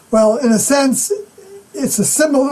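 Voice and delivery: fighting back tears mid-sentence, real emotion; voice breaking. Real, not acted. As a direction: voice cracks and rises as tears come. Voice catches speaking of his failure.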